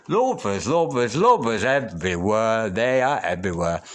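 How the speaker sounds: delighted, amazed exclamation; excited exclaiming. Real, not acted. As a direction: call out lovers everywhere in delighted disbelief. Same card keeps appearing.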